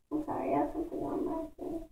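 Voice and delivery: very soft, quick apology; hushed aside. Real, not acted. Reader apologizes to listeners for an interruption, hushed aside. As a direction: drop right down for a quick private aside.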